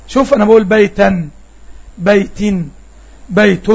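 بيتا ending in a still, unvoweled nun; بيت with a clipped, resting nun; sukun nun demo. Shown as a demonstration. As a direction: hold the final nun of بيتا closed and silent after it. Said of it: "سمعتها نون ساكنة ولا متحركة".

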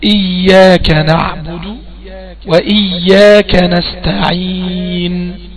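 very slow, drawn-out Quranic chant; slow recited verse with long vowels; Quran recitation. Shown as a demonstration. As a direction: intone the verse slowly as in prayer. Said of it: "بقول".

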